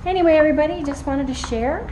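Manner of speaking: high loud cheerful call; excited call. Real, not acted. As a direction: call it out brightly. Calling out on walk.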